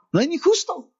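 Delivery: ni pitched high and pressed; emphatic preaching. Acted. Preacher insisting to the congregation, emphatic. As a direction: lift the whole line high on ni.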